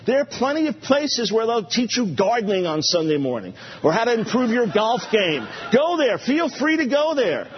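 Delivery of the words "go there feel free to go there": dismissive shout. Real, not acted. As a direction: go on then, off you go. Dismissing people who object.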